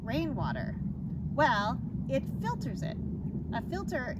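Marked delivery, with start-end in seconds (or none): 0.0-0.7 imagined listener question. Retold or imitated. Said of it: "Now you might be thinking".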